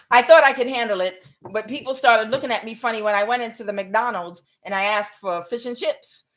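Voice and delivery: a rough stab at British; half-managed mock British accent; attempted British accent. European telling of an awkward McDonald's order, attempted British accent. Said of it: "That's the best I got, y'all".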